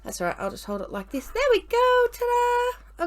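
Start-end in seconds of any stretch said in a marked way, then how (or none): 1.3-3.0 high proud showing off; excited ta-da. Real, not acted. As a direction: present it with a high ta-da. Showing finished cup proudly.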